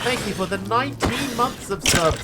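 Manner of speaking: high, loud, drawn-out excited hello; excited greeting. Real, not acted. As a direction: call out the name with delight. Streamer thanking a subscriber.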